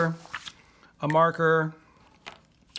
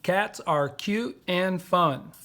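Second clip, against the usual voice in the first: slow dictation; 2 semitones higher, slower than usual. Shown as a demonstration. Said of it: "So we say five syllables".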